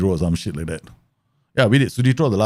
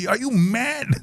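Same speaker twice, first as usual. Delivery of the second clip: mock wife shout; 13 semitones higher, slower than usual. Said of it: "She'll shout".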